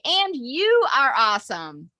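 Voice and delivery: slow, deliberate affirmation; each word stretched with conviction; mantra lead. Shown as a demonstration. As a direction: lead it for a group to repeat. Leading group affirmation for repeating.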